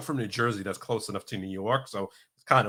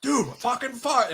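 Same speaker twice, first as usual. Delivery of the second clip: laughing retort; 11 semitones higher, slower than usual. Retold or imitated. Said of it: "He's like".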